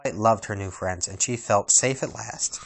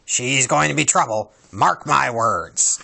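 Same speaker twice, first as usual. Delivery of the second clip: slow, gruff grumble; grumpy dwarf; 3 semitones higher, 4 dB louder, slower than usual. Acted. Grumpy grumbles that the girl means trouble. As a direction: grouse it out.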